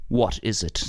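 lounge back and ask lazily; lightly voiced Tom Cruise; Tom Cruise impression. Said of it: "That's my Tom Cruise impression".

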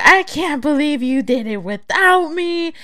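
high, loud imitation of an aggrieved friend; exaggerated retold complaint; mock outrage. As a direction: whine it loudly as a put-out buddy.

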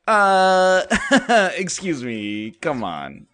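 mock protest breaking into a laugh. Listener laughing at his claim, mock protest. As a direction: start loud and high, then laugh it off. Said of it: "a pause for you to be like".

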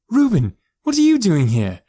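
high, loud indignant demand; agitated bark. A narrator's reading. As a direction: bark it out in alarm and outrage. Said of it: "she barked, agitated".

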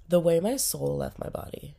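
breathy whisper. Shown as a demonstration. Sick vlogger whispering so she won't breathe on viewers. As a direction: whisper it so you don't breathe germs.

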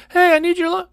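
high, bright mom call. Retold or imitated. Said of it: "My mom's all like".

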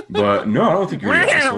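talking through laughter; giggling, high and loud; laughing. Real, not acted. Laughing while answering.

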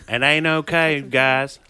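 light Texan drawl on ain't okay; Texan accent. Retold or imitated. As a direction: say it like a Texan relative. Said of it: "family Texan just came out".

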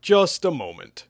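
high, loud plea to halt; urgent call, last words stretched. Acted. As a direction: call out to stop him. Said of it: "Hugh called out".

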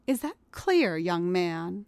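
stern mother. Acted. Jen sternly correcting Tom, slow and firm. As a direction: lay down the law to a naughty boy. Mother scolding naughty boy.

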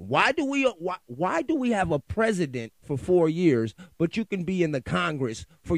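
exasperated rant. Real, not acted. Podcaster rants at Congress, outraged and loud. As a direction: demand an answer, fed up. Ranting about Congress terms.

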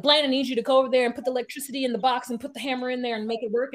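fast, pushy run of commands; mock bossy orders. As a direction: rattle off orders like a foreman. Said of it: "she immediately starts barking orders".

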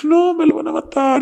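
high-pitched frightened wail; a mimicked cry of dread for a boyfriend; imitating panicked friend. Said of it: "Y ella".

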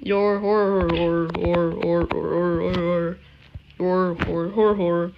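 chanting while spinning in chair; dizzy chant, spinning round; spinning in office chair. Real, not acted. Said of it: "spinning in my chair".

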